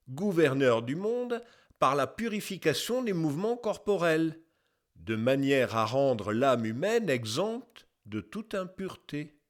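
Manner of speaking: put-on measured, slightly declaimed reading of an old text; lightly declaimed quotation. Narrator quoting an old scholar's testimony, lightly declaimed. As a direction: read it out as a formal testimony.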